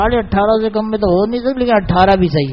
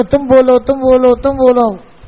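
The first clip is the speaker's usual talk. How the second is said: higher, pushy repeated Pathan pressing; insistent Pathan seller; 5 semitones higher, slower than usual. Retold or imitated. Pashtun seller chasing the imam to name a price, insistent Pathan accent. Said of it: "اب بہت پیچھے لگ گیا".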